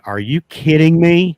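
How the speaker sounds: high, loud, slow mock-outraged disbelief; imitating the homeowner's high shocked cry; shocked old lady. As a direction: squeal it like a stunned old woman. Old lady's shocked outburst retold.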